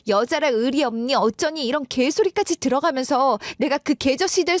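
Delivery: acted marital tirade, indignant and reproachful; angry wife. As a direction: let pent-up grievances pour out at the husband.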